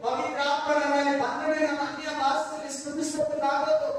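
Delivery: imitating an insistent, anguished prayer; re-enacted tearful plea. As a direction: cry out to God as if reliving desperation. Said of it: "ಬರೋ ಅಂತ ಅಳ್ತಾ ಇದ್ದೀನಿ".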